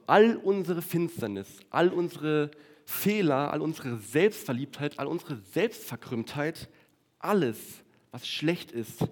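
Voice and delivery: forceful preacher hitting "all" again and again; rising preaching emphasis. Acted. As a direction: hammer every "all unsere" like a pulpit climax. Preacher builds list of sins.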